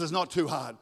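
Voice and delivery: plain, firm reply; God's firm answer. Acted. God answers the struggling believer, firm correction. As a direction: answer the doubt in a settled voice. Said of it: "But God says".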